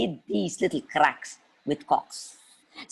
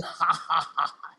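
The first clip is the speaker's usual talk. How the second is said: witchy laugh. Acted. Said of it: "she smiled".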